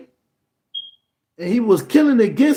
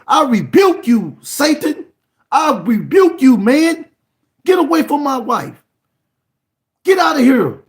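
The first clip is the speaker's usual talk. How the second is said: Adam rebuking Satan; 4 semitones higher than usual. Acted. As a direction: command the devil to leave as Adam would.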